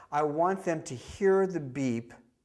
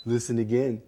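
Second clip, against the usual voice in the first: bright coaxing cue; 5 dB louder than usual. Shown as a demonstration. Prompting a child at the screening, bright coaxing. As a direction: coax the child to listen. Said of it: "it sounds just like this".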